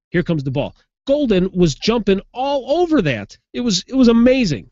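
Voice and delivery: can't believe they keep falling for it; worked-up, high and animated sports-talk disbelief; incredulous excited rant. Real, not acted. Incredulous rant about repeated snap timing.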